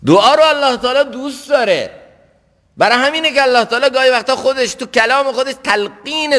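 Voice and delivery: high, emphatic sermon voice; impassioned preaching. Real, not acted. Preacher telling worshippers that God loves supplication, impassioned. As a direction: proclaim it to the congregation.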